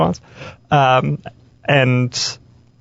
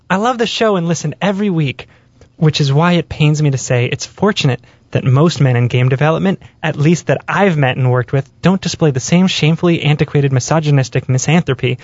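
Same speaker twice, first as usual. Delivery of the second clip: man doing a woman's voice. Pretend. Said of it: "I'm playing up the irony".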